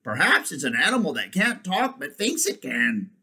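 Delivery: lightly voiced, lively donkey; bright donkey. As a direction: offer the idea brightly. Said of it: "said the donkey brightly".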